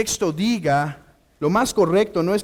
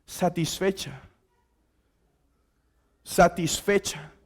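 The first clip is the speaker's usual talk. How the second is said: hushed keyword; 5 semitones lower, 9 dB quieter than usual. Shown as a demonstration. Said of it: "palabra clave de este encuentro".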